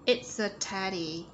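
"It's a" joined into one sound before "teddy"; slow model of "It's a teddy" with linking; linked sounds. Shown as a demonstration. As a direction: run the S of "It's" into "a". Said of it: "Nối âm này".

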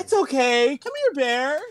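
high, loud coaxing call to an animal; coaxing the bear. Pretend. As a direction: lure the big bear over sweetly.

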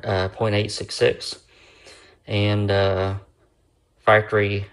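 slurring from a numb mouth; slurred speech. Real, not acted. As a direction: talk with half the mouth numb. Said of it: "if I sound like I'm slurring a little bit".

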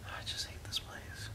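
soft fearful whisper; scared whisper. Real, not acted. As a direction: hush it in dread.

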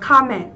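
"comment" as COM-ment, falling away; stress on first syllable. Shown as a demonstration. Teacher quizzing on stress, "comment" weighted on the first syllable. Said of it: "Trọng âm một".

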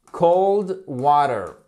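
"cold water" drawn out, British-style T; slow British model. Shown as a demonstration. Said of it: "en anglais britannique". ("cold water" lent, à la britannique)

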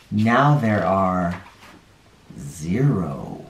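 gentle picture-book read-aloud with dropping countdowns; reading to children. A narrator's reading. Storyteller reading a counting book to children, gentle.

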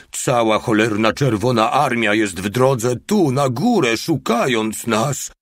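high, loud cry of alarm; alarmed shout. A narrator's reading. Lookout warning that the Red Army is coming, shouting in alarm. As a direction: shout the warning to your comrades. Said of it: "krzyknął nagle mały".

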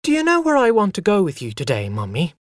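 put-on high, fast, childlike rush; eager child chatter. A narrator's reading. Boy tells mother his day's plans, eager and fast. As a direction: burst out with your plan like an excited boy.

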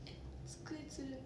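soft slow puzzled whisper; unvoiced murmur of disbelief. Real, not acted. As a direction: breathe it to yourself, confused. Puzzled aside about dialect word.

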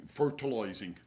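put-on slipping into an English country gardener accent; a hint of rural English accent. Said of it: "went to be like an English country gardener".

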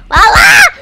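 high, loud yell of a name; urgent calling out. Real, not acted. Player calling friend Lala back, urgent shout. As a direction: yell the name sharply upward.

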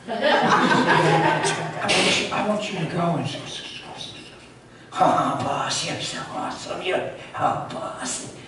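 giggling, stammering minion fawning over the boss; mock demon stammer. Demon grovelling to its boss, giggling stammer. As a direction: stutter and gush like a nervous lackey.

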